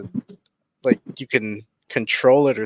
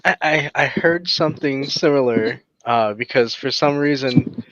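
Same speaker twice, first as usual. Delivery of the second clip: whistling on every s sound; 3 semitones higher than usual. Real, not acted. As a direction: let the s sounds whistle through. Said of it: "all the whistling with my S's".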